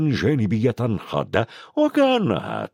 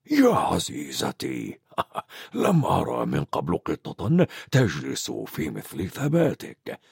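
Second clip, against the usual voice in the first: put-on slow, lower old wizard with a chuckle; Dumbledore amused; 7 semitones lower, 4 dB quieter than usual. Dumbledore teases McGonagall about sitting so still, slow and chuckling. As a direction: tease her fondly, slowly.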